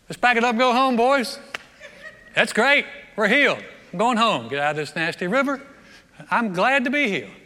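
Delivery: high, loud, celebrating; jubilant calling out. Acted. Healed commander rallying his men to head home, jubilant. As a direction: holler it happily to the whole crew. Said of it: "He could have said".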